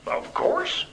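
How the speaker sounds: high, whispery little train voice; small gruff voice. A narrator's reading. Train answering the engineer's dare, small gruff voice. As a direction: answer as a tiny gruff creature. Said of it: "said the small, gruff voice".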